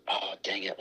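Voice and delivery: muttered under breath; frustrated whisper while trying to remember; whispered aside. Real, not acted. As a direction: whisper it to yourself, annoyed. Forgets the drink mixer.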